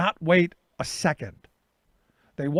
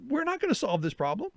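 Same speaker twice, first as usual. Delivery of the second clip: pleading calm-down; 8 semitones higher than usual. Retold or imitated. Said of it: "And I'm like".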